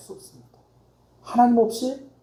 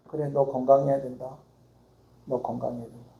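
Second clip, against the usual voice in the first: soft, lower, caring farewell; tender parting words; 6 semitones lower, 7 dB quieter than usual. Retold or imitated. Ailing older brother ending the phone call, a soft, caring farewell. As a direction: say it gently, like a blessing. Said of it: "꼭 끝말이 이거예요".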